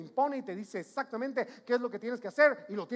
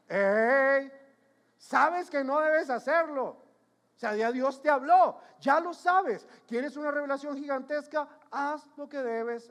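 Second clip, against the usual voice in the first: raised, high scolding voice; loud rebuke; 3 semitones higher, 7 dB louder than usual. Real, not acted. Preacher confronting congregation who know better, loud rebuke. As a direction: call them out forcefully, high and loud.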